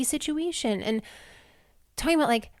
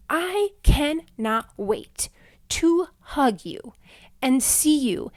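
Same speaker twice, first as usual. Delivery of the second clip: slow breathy longing; 4 semitones higher, much slower than usual. Real, not acted. Longing to meet listeners.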